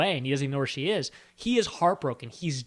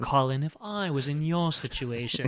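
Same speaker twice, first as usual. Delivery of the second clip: purring Meredith; 3 semitones lower than usual. Retold or imitated. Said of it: "He purrs".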